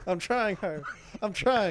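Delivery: pushing hard while talking; strained, effortful voice; straining effort. Real, not acted. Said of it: "I'm pushing".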